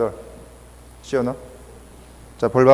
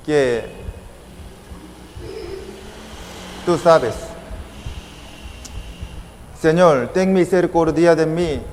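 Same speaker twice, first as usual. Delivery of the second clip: oración de ejemplo; 3 semitones higher than usual. Shown as a demonstration. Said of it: "podemos pedirle a Jesús de esa forma".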